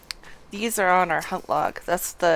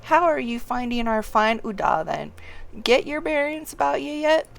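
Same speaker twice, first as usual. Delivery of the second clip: hearty, louder quest giver reading to the youngling; 5 semitones higher, 9 dB louder than usual. Acted. Old townsman sending the youngling beyond the walls, hearty and loud.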